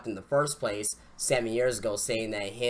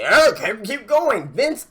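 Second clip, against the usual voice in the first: mock Vince call; 9 semitones higher, 9 dB louder, slower than usual. Vince egging on the crowd.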